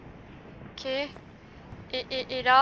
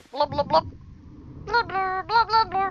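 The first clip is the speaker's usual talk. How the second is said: bubbling sounds; 3 semitones higher, slower than usual. Shown as a demonstration. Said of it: "on va faire blou blou".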